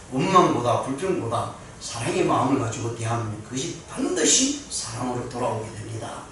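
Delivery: ordinary talk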